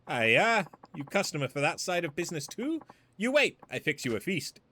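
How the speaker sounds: put-on cheerful cook in a thick Chinese accent. Cook offering Majima a feast, Chinese accent. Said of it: "Why did they get the offensive accent?".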